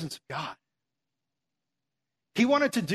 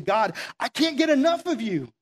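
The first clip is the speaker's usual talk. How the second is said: rising, louder, hungry for more; eager longing; 4 semitones higher, 3 dB louder than usual. Retold or imitated. Moses longing for God, mildly louder and rising. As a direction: pour it out like you can't get enough.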